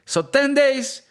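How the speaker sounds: mock Portuguese that slips into Russian; lightly put-on Russian-sounding accent. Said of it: "I heard the Russian accent".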